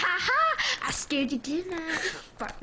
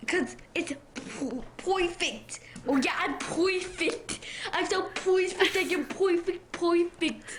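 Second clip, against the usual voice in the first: put-on playful New Jersey accent, perfect as poifect. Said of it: "New Jersey accent".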